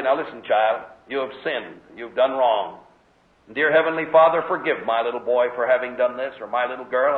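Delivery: lightly voiced loving father; gentle parent. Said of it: "put your arm around the child and say".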